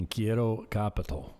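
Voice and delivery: CAPITAL said the English way inside Spanish; gringo Spanish. Retold or imitated. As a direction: order in Spanish with an Anglo CAPITAL. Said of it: "putting an accent on when I say capital".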